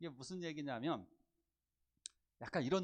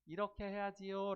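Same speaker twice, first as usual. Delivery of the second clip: gentle guidance; 4 semitones higher than usual. Shown as a demonstration. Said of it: "라고 얘기하는 거예요".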